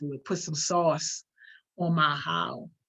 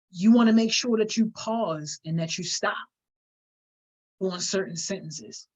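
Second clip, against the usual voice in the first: long pause before "on certain sentences"; pause before the last words. Shown as a demonstration. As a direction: stop dead, then land "on certain sentences". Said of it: "See how I just did that?".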